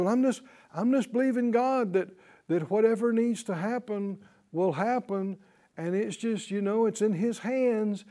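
mildly mocking, offhand pious quote; lightly imitated resigned platitude; mimicked passive believer. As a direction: imitate someone vaguely leaving it all to God.

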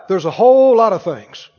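say it out loud. Shown as a demonstration. Preacher leading the church in a loud call-and-response. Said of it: "Said out loud".

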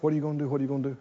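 a quiet, needling inner voice; insinuating voice. Retold or imitated. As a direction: murmur it like a thought creeping in. Enemy's whispered harassing thoughts.

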